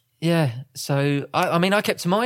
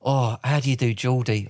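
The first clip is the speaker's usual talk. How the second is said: lower-pitched put-on Geordie greeting; mock Geordie accent; 4 semitones lower, 4 dB louder than usual. Husband clowns after being caught out, mock Geordie accent. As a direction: slip into a hammy Geordie accent. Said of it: "I felt another accent coming on".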